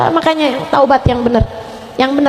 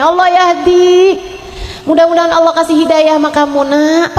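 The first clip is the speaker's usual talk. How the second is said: restrained parental anger; 2 semitones higher than usual. Retold or imitated. Teachers angry at their children, restrained mock anger. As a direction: imitate a very cross parent who only prays. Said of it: "udah marah banget udah".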